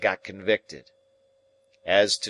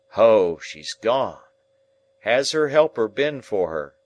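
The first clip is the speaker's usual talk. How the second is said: relieved calm; 7 dB louder than usual. Acted. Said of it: "he quieted".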